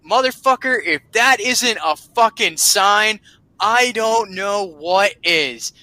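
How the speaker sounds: high, slowing exclamation; mock incredulous outburst. Uncle reacts to the bubble gum story, mock incredulous. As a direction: imitate an uncle floored by it, stretching out the end.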